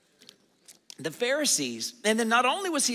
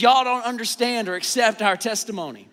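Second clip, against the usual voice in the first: Southern Jesus quote; 7 dB louder than usual. Pretend. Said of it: "if we had a Southern translation".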